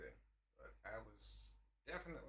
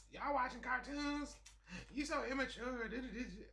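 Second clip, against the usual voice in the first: mock disapproval; 12 semitones higher, 4 dB louder than usual. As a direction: look down your nose at him. Imitating judging women.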